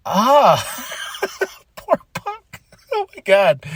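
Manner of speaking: high, breaking "poor Punk" with a laugh; mock pity. Fan pitying the beaten champion, high and laughing. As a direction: whimper it in half-laughing pity. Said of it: "I was like".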